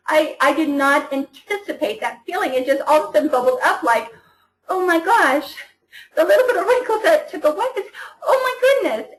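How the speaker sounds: overcome, high teary laugh-cry; real tearful outburst. Real, not acted. Tearfully telling the team about her first skincare result. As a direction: voice rising high, laughing and crying at once. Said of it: "I just started to cry".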